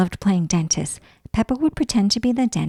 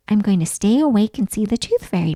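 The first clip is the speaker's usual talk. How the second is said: firm; 4 dB louder than usual. Acted. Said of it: "Peppa said to herself firmly".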